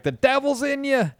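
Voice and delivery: high, loud mock preacher cry; crazy Baptist. Crazy Baptist condemning a gay son, hammed-up high cry. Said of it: "these crazy Baptists".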